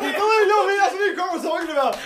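high-pitched, worked-up outburst; excited shouting. Real, not acted. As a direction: shout it, thrilled they've seen it too. Excited about a shared funny video.

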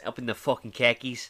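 Boston khakis, no r; Boston accent. Shown as a demonstration. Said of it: "say khakis".

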